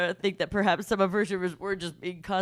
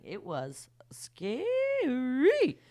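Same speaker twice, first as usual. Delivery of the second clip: whispered; 4 semitones higher, much slower than usual. Real, not acted. Recalling stage rush.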